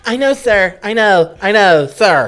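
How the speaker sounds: high put-on pleading voice; exasperated driver. Driver to the yelling shopper, high put-on exasperation. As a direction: answer the heckler in a high mock voice. Friend acts the driver answering back.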